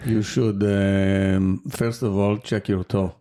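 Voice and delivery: put-on light Israeli accent as an AI. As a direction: answer in a mild Israeli accent. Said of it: "you have a good Israeli accent".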